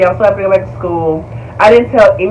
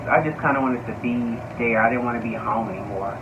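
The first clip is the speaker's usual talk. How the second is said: normal talking voice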